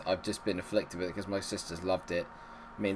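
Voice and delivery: normal talking voice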